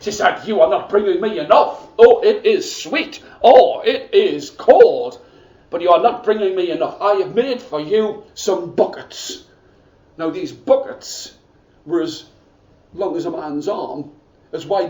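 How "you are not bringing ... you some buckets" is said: scolding stepmother. Acted.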